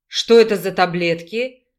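снарядно рыча; growled. A narrator's reading. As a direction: growl it like an angry bear. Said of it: "зарычал медведь".

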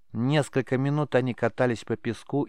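ordinary delivery, nothing marked

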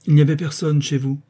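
the marquise scolds her maid Justine; angry marquise. Acted. Irritated scolding rebuke. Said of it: "d'un œil courroucé".

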